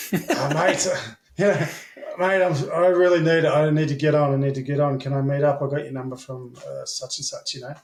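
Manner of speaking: a light junkie voice, pleading to buy; lightly voiced strung-out junkie begging; druggy accent. Undercover cop on the phone to a dealer, mild druggy voice. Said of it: "in my best, uh, druggy accent".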